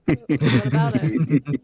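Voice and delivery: a slow, low, mock Canadian "about". Teasing the others with a mock Canadian "about". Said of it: "I like the way they say "about".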